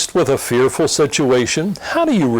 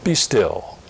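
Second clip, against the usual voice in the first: calm command; 3 semitones higher, much slower than usual. Acted. Jesus commanding the storm, slow and calm. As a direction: say it slowly and calmly, settling the storm. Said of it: "and calmly says".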